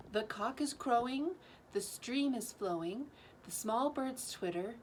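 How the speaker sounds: lilting, rhythmic verse reading; teacher reading a Wordsworth poem to the class, lilting. Acted. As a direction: read the lines with a gentle poetic swing. Reads poem Written in March.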